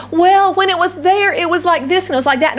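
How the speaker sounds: a touch of fond reminiscing; nostalgic recollection. Retold or imitated. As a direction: voice the rose-tinted memory lightly. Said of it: "we start thinking about".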